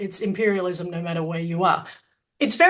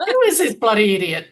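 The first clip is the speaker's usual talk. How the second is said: mocking parents; 6 dB louder than usual. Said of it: "my parents going".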